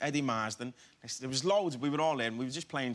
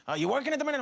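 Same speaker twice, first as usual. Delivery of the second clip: imitating Scorsese; 11 semitones higher, 5 dB louder, much faster than usual. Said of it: "And he was like".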